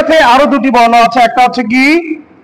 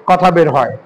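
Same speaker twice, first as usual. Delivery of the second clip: much softer, lower and slower, like someone who is ill; weak sick voice; 7 semitones lower, 5 dB quieter, slower than usual. Shown as a demonstration. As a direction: speak faintly as if sick. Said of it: "খুবই নরমভাবে".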